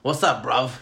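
imitated British accent. Friend greeting a visitor as he walks in, mock British accent. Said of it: "he's like".

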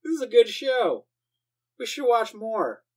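mock excited viewer. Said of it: "and you're like".

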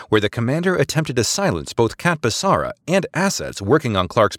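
crisp, formal subordinate making a case; precise female officer. Acted. Maradesi continues her report.

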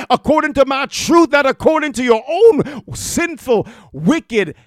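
loud rising preaching as God's rebuke; fiery preaching. Acted. God warning Cain through the preacher, fiery preaching. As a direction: drive it home to Cain.

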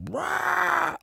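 a sudden high mock roar; pig roar. Pig roars in film retelling.

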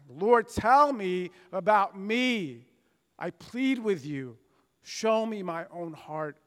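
slow, pleading prayer; earnest plea. Acted. Preacher prays the psalm before the congregation, slow and pleading. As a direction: plead with God, slowly and sincerely.

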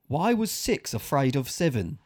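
slow retry with a Scottish tinge; Scottish-sounding accent. Shown as a demonstration. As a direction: try it again, sounding slightly Scottish. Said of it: "You just sound Scottish".

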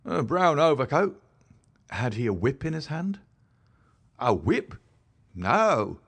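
a rough London constable recounting the night; gruff constable voice. A narrator's reading. Rance answers.

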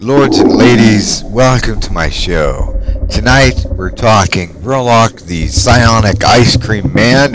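theatrical podcast host opening; show intro. Acted. Host welcomes lords and ladies to psionics show, theatrical announcing.

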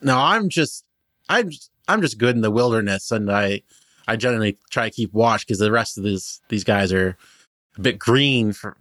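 lightly voiced cheerful halfling guide; a hint of an eager shepherd halfling, chatty; friendly halfling Benji. Halfling guide explaining his band to the travelers, lightly voiced.

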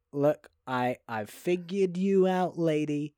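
put-on smug leading-man voice; knowing, self-satisfied imitation; mock smug. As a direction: say it as if you've seen through her. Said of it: "He doesn't say it smugly".

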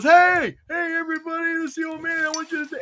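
high-pitched imitation of calling out to a room; mock calling out. Friend on the phone calls to everybody in the break room, mock calling out. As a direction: holler to everybody, imitating a caller.

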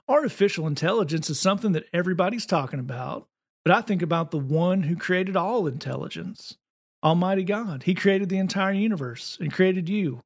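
put-on Southern preacher accent; fake Southern accent. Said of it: "let me see if I can pull the fake Southern accent out".

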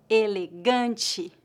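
"elegante" said slowly, with a nasal "an" and the "te" as "tchi"; slow model word. Shown as a demonstration. Teacher to students learning Portuguese, slowly sounding out "elegante". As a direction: drill "elegante" three times, carefully. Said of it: "são pronunciadas como ti".

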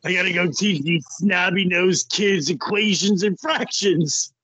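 lightly voiced grumbling math teacher; a hint of put-on teacher complaint; badly faked wrestler-as-teacher voice; Larry Zbyszko impersonation. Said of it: "terrible Larry Zbyszko impersonation".

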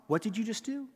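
imitating a shocked listener. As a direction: ask it like a stunned onlooker. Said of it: "people would have gone".

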